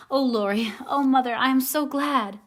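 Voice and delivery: loud, high joyful outburst; joyful cry. Acted. Jo hearing her mother is coming, joyful cry. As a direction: cry out with sudden joy. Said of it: "crying out with a joyful cry".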